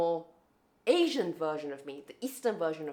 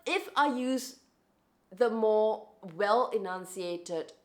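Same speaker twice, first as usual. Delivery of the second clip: slow, carefully enunciated British-Australian accent; well-enunciated British-Australian accent; slower than usual. Shown as a demonstration. Speaker explains switching accents to be understood, well-enunciated British-Australian accent. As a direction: spell it out clearly in a British-leaning accent. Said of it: "sounds more British or it sounds more Australian".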